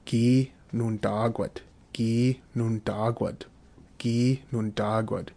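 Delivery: slow, careful drill pronunciation; slow model reading. Shown as a demonstration. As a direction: say it slowly for learners to repeat. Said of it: "Just run through all these verbs".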